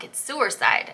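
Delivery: "suicide" said New England style, "suer-side"; six-year-old me in a New England accent. Retold or imitated. To the friend from California, insisting "suicide" in a New England accent. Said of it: "that's New England accent".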